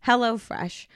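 scripted, upbeat sponsor read; podcast ad read. Acted. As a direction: pitch the sponsor to listeners, stressing key words. Reads a sponsor ad.

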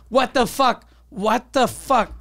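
retold disbelief. Panic at the bill, retold.

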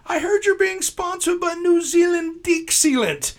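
high, slow put-on caller voice; prank caller voice. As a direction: drag it out in a disguised voice. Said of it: "and I said".

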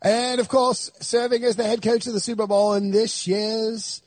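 lightly mocked British broadcaster; Trevor Noah. Host imitating Trevor Noah presenting a coach, light mock-British announcing. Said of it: "Is that how he says it?".

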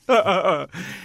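high imitated sobbing; hammed-up boo-hoo sobs; mock guttural sobs. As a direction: fake crying in short bursts. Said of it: "I was just guttural sobs".

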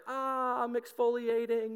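high, comic complaint; mock anguished whine. Jonah caught in the sandstorm, mock anguished whine. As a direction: whine as if sand-blasted.

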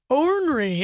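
"Ornery" stretched as OWN-ree; high, drawn OR-ree for "Ornery"; others' ornery. Retold or imitated. Cohost imitating everyone else, "Ornery" drawn out on OR. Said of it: "everyone else is like".

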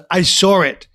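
lightly put-on Queens accent; a hint of an actor's quirky accent; Chris Walken. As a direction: imitate his odd accent on a short reply. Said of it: "Uh, that's Chris Walken".

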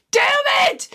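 high exasperated yell; frustrated shout. Retold or imitated. Stuck on the wall, shouting in frustration at Jake. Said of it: "and I'm like".

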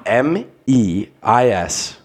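slow, spelled-out mock German letters; fake German accent. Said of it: "what accent are you doing right now".

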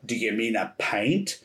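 mock someone's way of talking, drawing out "pint"; imagined mocking accent. Clerk supposedly mocking a drunk tourist's speech, imitated mocking accent. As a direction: imitate a clerk making fun of the customer. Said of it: "she was mocking the way that I talked".

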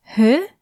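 "hy" breathed with the tongue low. Shown as a demonstration. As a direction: say "hy" from the low-laugh position. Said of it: "w takiej pozycji języka powiedz hy". ("hy" z nisko opuszczonym językiem)

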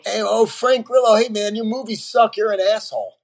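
lightly voiced heckler calling out to a celebrity; imitated heckler. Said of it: "walk through airports and sometimes go".

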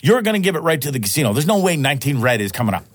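like your buddy just lost his mind at the table; incredulous outburst. Retold or imitated. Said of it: "I'm like".

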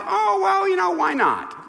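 high-pitched, airy shrug of a voice; mock breezy decision. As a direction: toss it off as a careless whim. Mocking the coach's casual decision.

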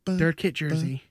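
deep sexy voice. Pretend. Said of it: "my deep, sexy voice".

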